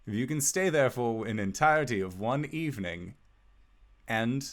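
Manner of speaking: measured, formal reading of a will; letter read aloud. Acted. Wizard setting Albus a condition for the manor, formal letter reading. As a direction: read out the bequest with lilting emphasis. Game master reads the letter.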